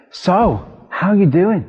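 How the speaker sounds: high, eager retold hello; bouncy greeting. Speaker greeting protesters warmly, bouncy retold cheer.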